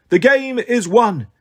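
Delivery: high, drawn-out proclamation; suppressed amusement. A narrator's reading. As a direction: announce victory, holding back a laugh. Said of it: "as if she were trying not to laugh".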